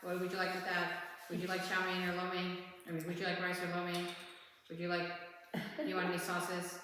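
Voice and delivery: lightly mock robot cashier, every question the same; a hint of a machine reading its menu prompts; robotic drive-thru voice. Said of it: "That's how she spoke".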